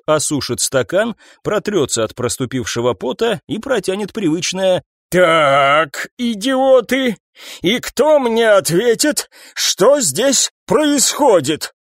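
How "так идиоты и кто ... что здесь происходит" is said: high, slow contemptuous demand; slow scolding. Acted. Captain demanding answers from his staff, slow and scornful. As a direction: call them idiots slowly.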